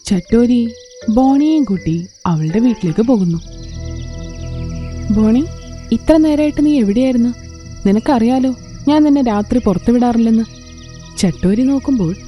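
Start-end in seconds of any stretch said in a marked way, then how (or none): 5.1-10.4 cross mother demanding an answer; angry mother. Acted. Mother scolding daughter for being out at night, angry. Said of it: "ബോണിയുടെ അമ്മ വളരെയധികം ദേഷ്യപ്പെടുന്നുണ്ടായിരുന്നു".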